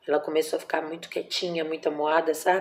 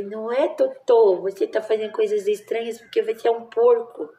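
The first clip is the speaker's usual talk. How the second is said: put-on playful baby talk to a pet; 5 semitones higher, 4 dB louder than usual. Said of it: "Cheguei pertinho do rostinho dela e falei". (falando com a porquinha em tom brincalhão e agudo)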